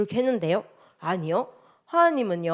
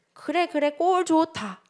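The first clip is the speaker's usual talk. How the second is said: high, soft mock scoffing; mocking scorn; 8 semitones higher, 5 dB quieter, slower than usual. Parents scoffing at a child who came back, mockingly. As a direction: act out a scornful parent's sneer.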